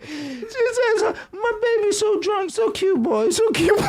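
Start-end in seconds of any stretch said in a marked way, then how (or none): 1.3-3.9 put-on sing-song falsetto baby talk; mock coo way up high, breaking into laughter; doting mother. Mother fussing over drunk son before brother, doting coo.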